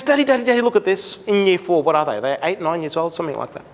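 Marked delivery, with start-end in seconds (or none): 0.0-1.2 put-on higher, eager little girl calling dad; voicing an excited daughter; excited child. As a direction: call out like a thrilled kid.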